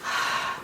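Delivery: demo sigh. Shown as a demonstration. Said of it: "just stop and say".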